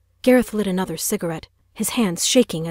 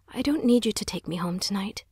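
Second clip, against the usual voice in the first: put-on girl nervously refusing him; nervous mutter; 2 semitones higher than usual. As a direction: mutter it, unsure of herself. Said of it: "she muttered nervously".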